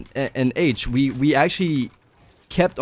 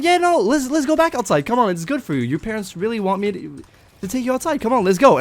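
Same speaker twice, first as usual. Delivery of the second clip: much higher, sing-song imitation of the babysitter; imitating a babysitter pleading with a stubborn kid; coaxing babysitter; 8 semitones higher than usual. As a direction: coax the kid outside in a high put-on voice.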